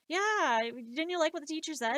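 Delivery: put-on eager kid. Kid's voice retold.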